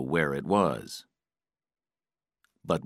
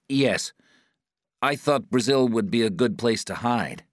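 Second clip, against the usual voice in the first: higher-pitched, anxious answer; captive's voice; 6 semitones higher, 3 dB louder than usual. A narrator's reading. Patrick answers his interrogator, anxious captive's voice.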